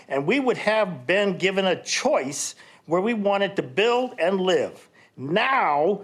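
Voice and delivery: a resident's frustration spilling over at the podium; rising indignation. Real, not acted. Opposing resident getting heated.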